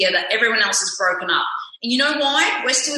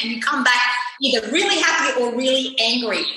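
hammed-up husband asking why she bothers; imitating her husband; 2 semitones higher than usual. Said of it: "So my husband's like".

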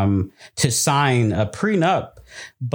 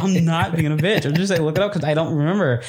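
excited; 7 semitones higher than usual. Real, not acted. Defensive, excited telling.

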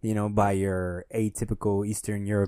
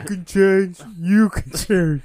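movie quote; 7 semitones higher, 4 dB louder than usual. Retold or imitated. Quoting Rocky Four line.

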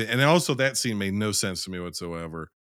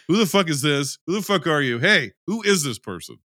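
louder, higher what-the-hell outrage; mock outrage; 5 semitones higher, 4 dB louder than usual. Imagined fiancé confronting the stranger, in mock outrage. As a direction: act affronted, half laughing. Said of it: "I'm going".

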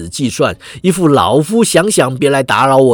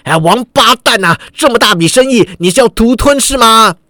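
angry shout; 5 semitones higher than usual. Acted. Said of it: "喝道".

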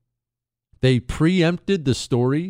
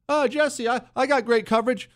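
mocking voice; 11 semitones higher than usual. Mocking a caller's boast.

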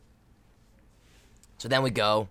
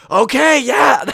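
loud, high team roar; retold hyped reply; 16 dB louder, much slower than usual. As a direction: answer like a fired-up team. Teammates getting fired up in timeout.

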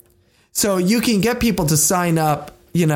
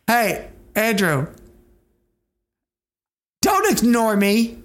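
whiny calling out; 5 semitones higher, slower than usual. Pretend. Calling repeatedly for attention.

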